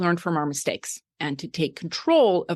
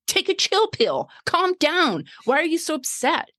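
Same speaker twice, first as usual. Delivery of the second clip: much higher mock voice of people telling her to calm down; mimicking dismissive people; 10 semitones higher than usual. Coach mimicking people who told her to calm down, high mocking voice. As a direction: parrot their brush-off, high and sing-song. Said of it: "when people would tell me".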